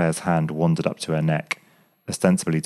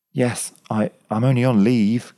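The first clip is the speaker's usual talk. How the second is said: breathless, louder and higher gasp; 6 semitones higher, 4 dB louder than usual. A narrator's reading. Graham, caught by emotion, gasps his answer to Claire. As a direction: gasp the words out, overcome. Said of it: "gasped Graham".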